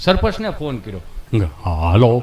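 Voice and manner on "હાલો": low, gruff phone hello; sarpanch answering. Acted. Sarpanch answers a phone call from Gabho, low voice. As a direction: pick up the phone as the village head.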